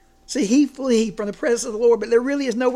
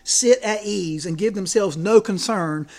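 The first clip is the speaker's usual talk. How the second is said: quote reading; 4 dB louder than usual. Acted. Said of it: "listen to his quote".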